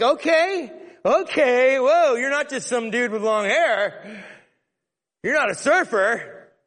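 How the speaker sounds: wide-eyed, hammed-up realization; mock amazement; amazed woman.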